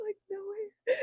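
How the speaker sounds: high, laughing through the words; laughing hard. Real, not acted. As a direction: crack up while talking.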